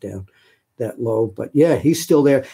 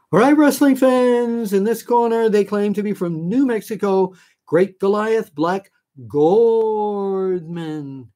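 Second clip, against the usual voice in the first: higher, louder, slow announcer call; ring announcer; 8 semitones higher, 4 dB louder, slower than usual. Retold or imitated. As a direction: introduce the wrestler like an old ring announcer. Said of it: "He'd go".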